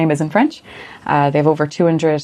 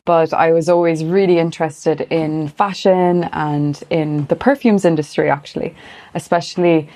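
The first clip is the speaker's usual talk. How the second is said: west of Ireland accent. Real, not acted. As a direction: speak with an Irish west-coast accent. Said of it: "I'm from Galway originally".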